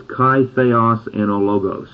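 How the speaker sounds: "kai theos and ologos" read as an attempt at Koine Greek, kah-ee THEH-os; Greek phrase. Shown as a demonstration. Preacher trying out the Greek phrase for the congregation, careful pronunciation. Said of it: "let me give it a shot".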